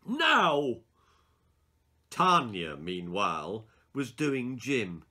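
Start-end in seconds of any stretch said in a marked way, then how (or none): 0.0-0.8 loud, high barked order; teacher finally loses her temper; angry command. Acted. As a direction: snap it out in fury.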